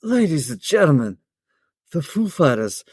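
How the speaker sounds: halting impression that drifts British; Christopher Walken. Shown as a demonstration. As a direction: attempt an eccentric actor, slipping into British. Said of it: "That sounded British".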